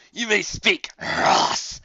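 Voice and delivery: lightly voiced haughty commander; griffin commander. A narrator's reading. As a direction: grant it with lofty scorn. Griffin commander granting leave.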